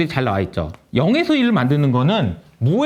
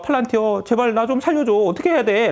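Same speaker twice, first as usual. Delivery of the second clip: higher-pitched, hammed-up begging; mock desperate plea; 5 semitones higher than usual. US government begging Palantir, mock desperate. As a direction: play at pleading for rescue. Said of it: "이렇게 비유를 했거든요".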